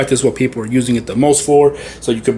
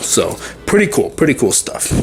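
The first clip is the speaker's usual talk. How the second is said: a bit short of breath. Real, not acted. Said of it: "I'm running out of breath here".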